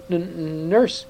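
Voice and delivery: put-on frightened boy stammers out a high, strained answer; faltering. Frightened prince faltering before his stern uncle, high and strained. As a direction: catch on the first sound, then blurt it. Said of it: "faltered Caspian".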